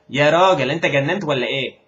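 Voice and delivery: a fast, fed-up "have you lost it"; exasperated demo. Shown as a demonstration. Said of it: "Have you gone crazy or what?". (friend asking if you've gone crazy, incredulous)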